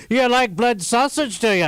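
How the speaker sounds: stage Irish drawled as a leering question; Irish accent. Pretend. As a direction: tease the customer in broad stage Irish. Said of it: "That's an Irish".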